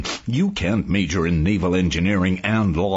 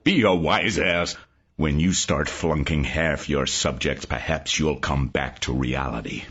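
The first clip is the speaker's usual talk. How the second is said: barely contained anger; 10 semitones lower than usual. Acted. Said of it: "Tokas almost exploded".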